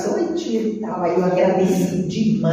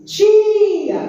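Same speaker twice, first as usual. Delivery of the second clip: high, loud call of Tia; a child spots her and calls out loud; 12 semitones higher, 4 dB louder than usual. Retold or imitated. Child in the supermarket spotting his teacher, calls out loudly. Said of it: "eu só ouvia assim".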